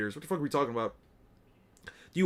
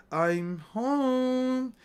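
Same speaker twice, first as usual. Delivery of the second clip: higher, drawn-out call; acted homecoming, held high on the last word; calling out arrival; 6 semitones higher, 4 dB quieter than usual. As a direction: announce yourself on coming home. Character announces arrival after crash.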